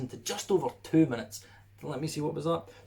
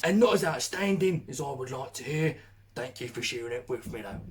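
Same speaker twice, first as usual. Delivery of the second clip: mock British accent. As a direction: finish the review like a cheeky Brit. British reviewer voiced.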